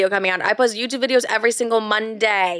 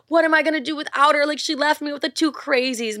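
higher-pitched mock lament; mock dramatic; 5 semitones higher than usual. Mom lamenting on the car ride, mock dramatic. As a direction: imitate an overdramatic, grieving mother. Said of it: "being so beyond dramatic".

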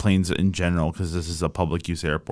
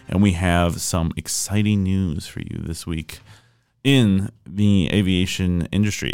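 news host intro. Acted. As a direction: announce the segment like a radio host. Opens the weekly news segment.

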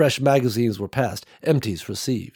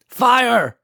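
shouted order; 12 semitones higher, 6 dB louder than usual. A narrator's reading. Nicole orders the shooting.

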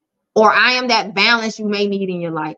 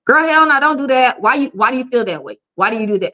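tough love sister; 2 semitones higher, faster than usual. Retold or imitated. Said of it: "I'm gonna be that reasonable voice, but I'm gonna be like".

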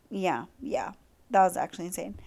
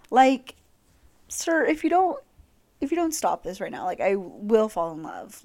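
flustered mock plea; 3 dB louder than usual. Real, not acted. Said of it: "flustered plea".

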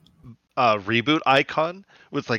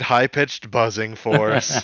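defeated; slower than usual. Retold or imitated. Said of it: "Mike, very kind of, like, defeated".

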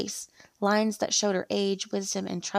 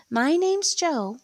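put-on slow, higher old woman voice; elderly lady; 8 semitones higher, 4 dB louder, much slower than usual. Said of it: "said the elderly lady".

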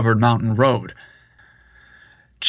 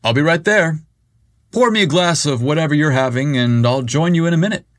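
hollering back; 4 semitones higher, faster than usual. Acted. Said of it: "Briggs hollered back".

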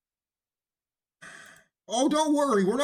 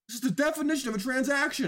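frustrated outburst at commenters; exasperated shout; 5 semitones higher, faster than usual. Real, not acted. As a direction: yell it like the point is obvious. Exasperated rant peak.

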